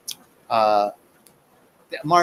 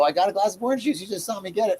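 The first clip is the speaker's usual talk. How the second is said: put-on higher, cheeky five-year-old talking back; sassy child comeback; 5 semitones higher, faster than usual. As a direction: snap back like a smart-mouthed kid. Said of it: "I didn't say that".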